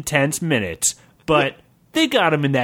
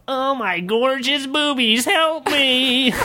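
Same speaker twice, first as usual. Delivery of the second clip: high-pitched cry for help; high yelling; 11 semitones higher, slower than usual. Acted. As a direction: squeal for help.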